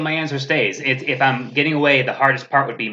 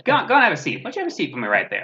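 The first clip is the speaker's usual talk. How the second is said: Chris Hansen sting host; 6 semitones higher than usual. Retold or imitated. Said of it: "I'm Chris Hansen".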